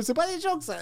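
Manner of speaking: cute high French voice. Shown as a demonstration. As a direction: pitch "C'est pas des jokes, ça" way up, cute. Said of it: "See, it's the high tone".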